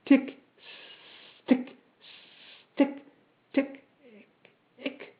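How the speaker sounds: high, crisp clockwork ticks; spaced high ticks, fading at the end; mechanical ticking. A narrator's reading. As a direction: tick like a machine winding down. Metal man makes ticking noises.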